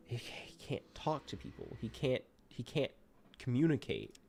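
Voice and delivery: unvoiced, soft "can't talk to people"; whispered despair. Real, not acted. Gamer muttering about his mute character, whispered despair. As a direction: breathe it out in defeat.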